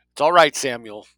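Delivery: loud, calling to the guard; called out. A narrator's reading. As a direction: call across to him. Woman calls out to guard.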